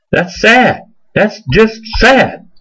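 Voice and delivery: high, slow "That's just sad"; a sorrowful, slowed lament. Real, not acted. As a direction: draw it out in dismay. Preacher lamenting followers.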